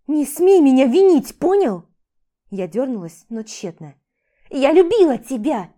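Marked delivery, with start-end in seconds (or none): 0.1-1.9 high, loud yell; furious shout. Acted. She screams at husband. 4.5-5.7 loud, anguished shout; shouted confession. Acted. Shouting at husband.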